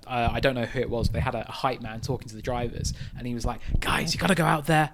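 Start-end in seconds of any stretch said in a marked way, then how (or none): 3.8-4.9 put-on New York accent. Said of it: "I apologize for the accent".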